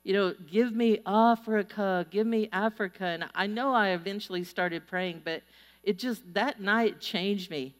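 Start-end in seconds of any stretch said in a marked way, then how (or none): 0.5-3.0 put-on German accent. Recalling a German evangelist praying for Africa, light German accent. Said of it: "But in his voice, it sounded like".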